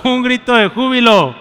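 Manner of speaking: loud shout of joy. Shown as a demonstration. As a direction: belt it out as a cry of joy. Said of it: "hermanos, más fuerte".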